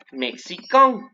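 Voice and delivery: slightly nasal final vowel in "mexicain"; nasal ending. Shown as a demonstration. Teacher models the nasal for students, careful French. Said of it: "pero un poquito nasal".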